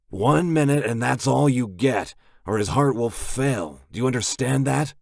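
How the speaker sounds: loud stern warning. A narrator's reading. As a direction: lay down the law firmly.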